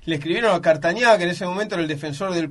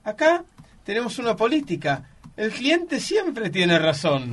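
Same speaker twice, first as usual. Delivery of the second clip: imitating calm owner; 4 semitones higher than usual. Shop owner answering an angry customer's complaint, mock calm. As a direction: play the unruffled shop owner, drawing out the last sentence. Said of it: "me miró así tranquilo y dice".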